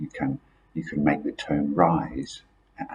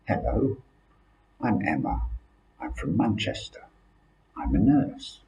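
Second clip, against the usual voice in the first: polite and confident; 4 semitones higher than usual. Shown as a demonstration. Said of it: "Polite, confident, simple".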